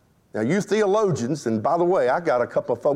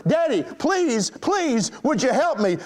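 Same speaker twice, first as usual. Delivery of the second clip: high, drawn-out plea, no real shouting; retold frightened yell; 7 semitones higher than usual. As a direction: imitate a scared child begging urgently. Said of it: "frightened girl yelled even louder".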